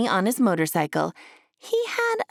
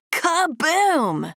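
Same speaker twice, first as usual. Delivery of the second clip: cheering; 7 semitones higher than usual. A narrator's reading. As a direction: shout it out like a stunt hero's catchphrase. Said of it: "cheered Duke".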